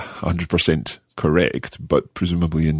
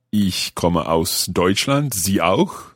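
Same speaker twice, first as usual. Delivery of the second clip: very slow "Ich komme aus Deutschland" then quick "Sie auch"; slow learner German; much slower than usual. Shown as a demonstration. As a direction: spell out the German slowly. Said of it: "learner tries German sentence".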